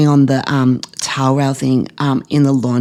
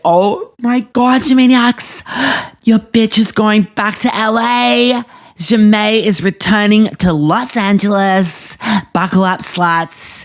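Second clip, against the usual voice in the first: higher, proud gleeful proclamation; triumphant announcement; 5 semitones higher than usual. Real, not acted. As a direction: crow to the fans that she's going back.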